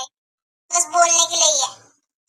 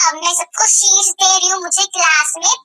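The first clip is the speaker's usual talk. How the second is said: sing-song teacher; 4 semitones higher, 9 dB louder than usual. Acted. Teacher hands out sheets.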